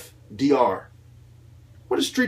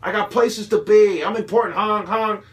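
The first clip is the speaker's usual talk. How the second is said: louder and higher, a hammed-up rude shout; mock yell; 6 semitones higher, 5 dB louder than usual. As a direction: yell at an old lady to get out of the way, with a honk. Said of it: "When we yell at old ladies".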